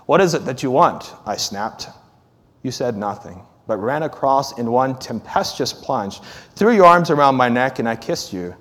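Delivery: earnest sermon reading; story reading. Acted. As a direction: read the letter on, then preach the lesson. Continues story then preaching.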